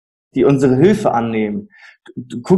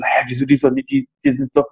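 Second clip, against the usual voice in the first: high, puzzled indignant Hä; mock bafflement at the baby talk; pitched-up disbelief; incredulous retort; 10 semitones higher than usual. Retold own indignant reply.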